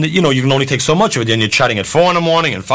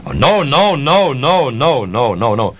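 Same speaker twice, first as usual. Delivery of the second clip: mock refusal; slower than usual. Singer refusing to go out.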